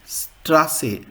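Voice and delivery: Straße with a clear voiceless s in the middle; sharp S example. Shown as a demonstration. Teacher giving a German example of sharp S, careful pronunciation. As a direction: say Straße carefully, falling at the end. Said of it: "So example in Germany".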